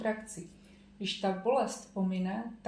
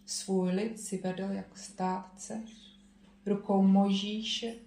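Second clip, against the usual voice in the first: psalm reading. Acted. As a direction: read the psalm out with weight. Reads a psalm aloud.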